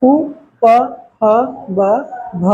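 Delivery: उ, प, ह, ब, भ spoken one by one with both lips; clear letter demo. Shown as a demonstration. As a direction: sound out उ, प, ह, ब, भ separately. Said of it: "ओष्ठ से हो रहा है".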